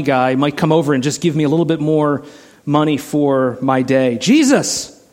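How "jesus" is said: high desperate cry for mercy; yelling out. Retold or imitated. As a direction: call out to Jesus, pleading. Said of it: "he's yelling out".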